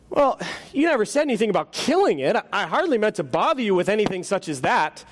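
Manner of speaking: high, fretful ghost voice; nervous ghost voice. Acted. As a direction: play a flustered, embarrassed ghost. Ghost protests.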